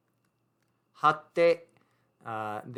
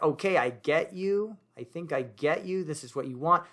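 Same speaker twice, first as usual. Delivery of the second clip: brighter, higher "I get you" voice; light, confident reassurance; knowing friend; 3 semitones higher than usual. Retold or imitated. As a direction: play the friend who gets it. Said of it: "Just like".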